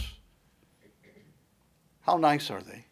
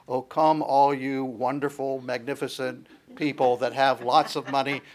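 mock wrong version; 2 semitones lower than usual. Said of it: "Do you notice it doesn't say".

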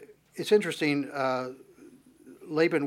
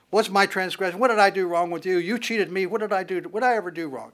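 angry protest; 4 semitones higher, 4 dB louder than usual. Acted. Jacob confronts Laban angrily.

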